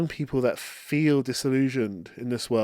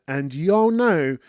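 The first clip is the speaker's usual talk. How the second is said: tender; 4 semitones higher, much slower than usual. Real, not acted. Tender thanks to viewers.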